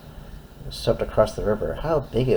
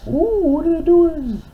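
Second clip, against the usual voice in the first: high, wondering ooh; wide-eyed wonder for a toddler; surprised; 5 dB louder than usual. Acted. Aside to child listener.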